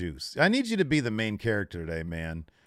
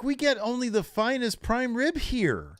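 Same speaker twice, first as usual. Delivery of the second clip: imitating snooty GM; 11 semitones higher than usual. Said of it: "I'm like".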